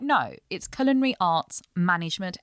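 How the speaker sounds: "management" set apart and clearly emphasized; stress on MANAGEMENT. Retold or imitated. Correcting relatives about the degree, stress on "management". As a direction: lean on the word "management" to correct them. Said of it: "emphasis on the word management".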